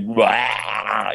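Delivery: drawn-out mock "waah"; imitated fan "waah". Actor imitating an impolite fan, drawn-out waah. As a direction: imitate a fan's wail of excitement. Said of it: "they're just like".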